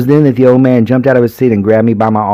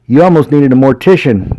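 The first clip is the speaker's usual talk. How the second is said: chuckling; 4 semitones higher, 3 dB louder than usual. Acted. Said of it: "said with a chuckle".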